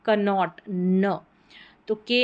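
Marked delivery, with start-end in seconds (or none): 0.0-0.6 कनॉट with k spoken, slow; wrong k sound. Shown as a demonstration. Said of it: "न कि कनॉट". (गलत उच्चारण कनॉट)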